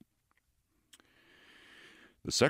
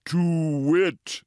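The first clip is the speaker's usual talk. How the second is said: owl's hoot; 5 semitones higher than usual. Acted. Owl answering a warning, hooting. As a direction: hoot it out blindly.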